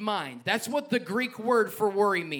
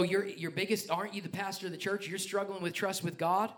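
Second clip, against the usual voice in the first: questioning congregant; 8 dB quieter than usual. Acted. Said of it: "You go".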